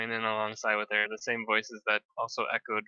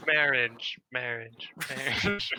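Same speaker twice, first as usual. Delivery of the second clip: echoing voice; slower than usual. Acted. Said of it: "everything she says echoes".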